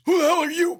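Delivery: rough, strained challenge to a stranger; Alan Graff. Acted. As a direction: bellow it like you've been chewing nails. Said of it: "he looks at me and he goes".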